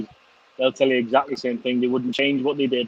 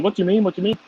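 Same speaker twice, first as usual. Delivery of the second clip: put-on higher, eager kid's voice pressing the question; curious son; 7 semitones higher, faster than usual. Eleven-year-old son presses his dad, higher eager child voice. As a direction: push like a kid who wants to know. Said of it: "And he's like".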